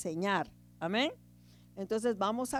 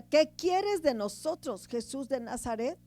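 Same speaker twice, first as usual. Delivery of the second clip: moderately raised scripture quote; mild acted cry; 2 semitones higher, 4 dB louder than usual. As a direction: call it out, lightly acting a possessed man's protest. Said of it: "gritaba y decía".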